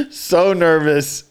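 slow, through a laugh; amused, drawn-out words. Real, not acted. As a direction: laugh as you stress it. Breaking up telling story.

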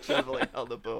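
high, loud, quick through laughter; laughing. Real, not acted. Joking with co-hosts about who held the boom, laughing. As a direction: crack up while saying it, words tumbling out fast.

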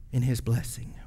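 hushed, breathy whisper; preacher softly whispering a promise to the church. Real, not acted. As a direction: drop to a whisper for the blessing.

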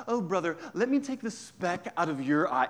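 lightly voiced smug, preachy offer of help; self-righteous. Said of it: "such a self-righteous way to sort of say".

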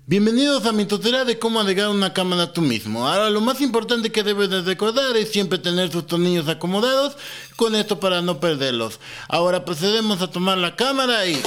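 upbeat how-to video presenter; tutorial host voice. Pretend.

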